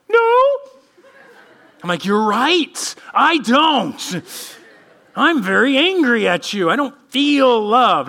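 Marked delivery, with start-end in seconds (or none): 0.1-0.4 mock child's high, loud no with a laugh; kids' high no. Kids answering dad at dinner, high mock no. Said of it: "They're like". 2.0-8.1 louder and higher, half-laughing angry dad; mock angry dad. Dad telling kids at dinner, mock angry.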